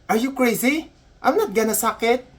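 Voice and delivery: high-pitched mock disbelief; indignant. Canadian nurse misunderstanding the patient, comically indignant. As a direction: refuse as if affronted.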